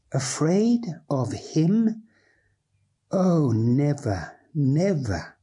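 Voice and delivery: slow, hushed Rat answering in wonder; a tender, awed reply. Acted. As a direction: draw it out with reverence.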